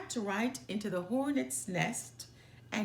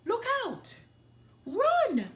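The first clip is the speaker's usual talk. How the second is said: frantic yells, much higher and louder; panicked yelling; 14 semitones higher, 6 dB louder than usual. A narrator's reading. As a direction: shout in fear as the hornets swarm. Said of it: "yelled the gang".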